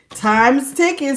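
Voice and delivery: slow, drawn-out words. Real, not acted. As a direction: let it hang, slowly. Reading a card slowly.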